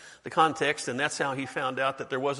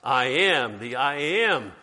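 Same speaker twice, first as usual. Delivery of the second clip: congregation call-out; 5 dB louder, slower than usual. Real, not acted. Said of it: "Students of the Bible speaking out".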